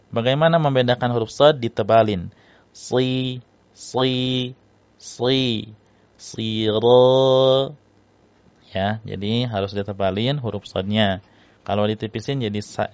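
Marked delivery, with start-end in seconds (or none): 2.7-7.8 "Si" with a thick, heavy sad and the back of the tongue raised; "Siro" said heavy, not a thin sin; heavy sad demo. Shown as a demonstration. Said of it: "Harusnya pakai sad".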